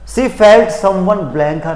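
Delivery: reads the sentence very slowly, word by word; teacher reading the sentence aloud slowly. Shown as a demonstration. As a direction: drag it out so students follow. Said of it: "देखिए मैंने बोला".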